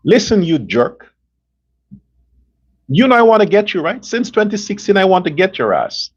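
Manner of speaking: a lightly voiced Trump, blunt and threatening; only a hint of Trump's tough-guy swagger, issuing an ultimatum; imitating Trump. Host imitates Trump warning Maduro on the phone, mild blunt Trump impression. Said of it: "let me try to imitate how I think he would have actually said that".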